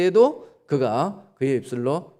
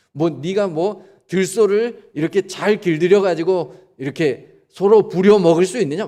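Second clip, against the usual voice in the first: challenging God; 2 semitones higher, 4 dB louder than usual. Acted. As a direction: press Job with rising, forceful questions. God challenging Job from storm.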